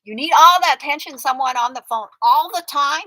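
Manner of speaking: exasperated scolding. Real, not acted. Scolding her friend for needing the scammer's attention, exasperated. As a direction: tell her off, raising your voice.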